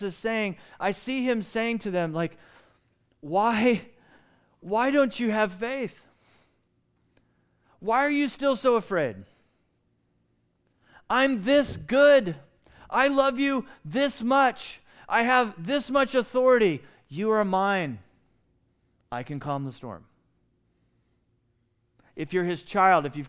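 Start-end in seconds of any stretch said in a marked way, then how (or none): 3.2-18.0 high, loud, drawn-out heartfelt appeal; kind, pleading Jesus. Shown as a demonstration. Preacher voices Jesus pleading with his frightened followers, kind and impassioned. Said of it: "saying this with kindness in his voice". 19.1-20.1 calm reassurance, dropped to a settled level; kind Jesus. Shown as a demonstration. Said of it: "saying this with kindness in his voice".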